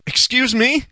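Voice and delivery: high-pitched mock disbelief; mock shock. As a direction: react as if scandalized by what you heard. Mock shock at played outtake.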